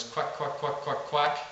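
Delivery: soft, hushed run of quacks; whispered quack. Shown as a demonstration. Coach recalling pond ducks' feed call, whispered. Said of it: "whispering the word quack".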